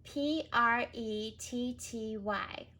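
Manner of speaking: P R E T T Y letter by letter; careful spelling; spelled out. Shown as a demonstration. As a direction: spell it slowly.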